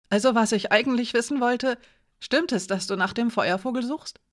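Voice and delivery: a hint of a youthful, inquisitive lad; Edik, curious teenager. Edik asks Alina about the firebird, lightly voiced curious boy.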